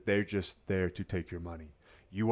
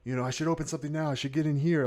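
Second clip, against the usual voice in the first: regretful trader; 7 semitones higher, 5 dB louder than usual. Retold or imitated.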